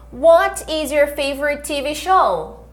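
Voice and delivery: slow, clear teacher model; "What is your favorite food?" said slowly word by word; slow repeat-after-me. Shown as a demonstration. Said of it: "Repete comigo".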